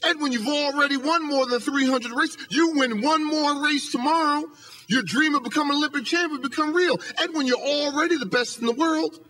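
retold coach, pitched high and incredulous; mock outrage at a star who wants to change; exasperated coach. Coach scolding his champion hurdler, high, exasperated. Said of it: "his coach goes ballistic".

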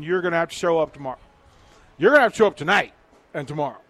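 fast, loud rallying push to the fans; rallying call. Real, not acted. Host rallying Husker Nation to show up, fast and loud. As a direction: fire up the home crowd, rapid-fire.

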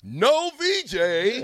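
high, slow drawn-out call; mocking Nick. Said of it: "when Nick kept saying".

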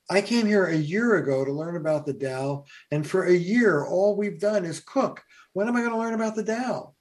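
rising, fast, exasperated complaint; frustrated kid. Retold or imitated. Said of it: "now the kid's getting frustrated".

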